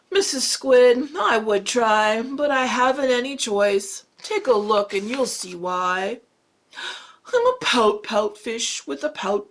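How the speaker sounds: a lightly voiced glum fish, chanting his refrain; gloomy pout fish. Teacher reads the fish's gloomy refrain in a light voice. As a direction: droop through the refrain like a sulky fish.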